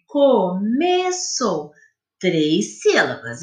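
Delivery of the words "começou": Começou dragged out very slowly, syllable by syllable; slow teaching demonstration; very slow counting. Shown as a demonstration. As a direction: count the beats as you say it. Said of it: "Quantas sílabas tem?".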